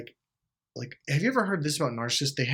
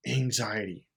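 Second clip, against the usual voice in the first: normal talking voice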